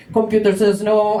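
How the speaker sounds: lightly robotic refusal; a hint of computer voice; computer refusing. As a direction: imitate a blank machine saying no. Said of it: "they're like".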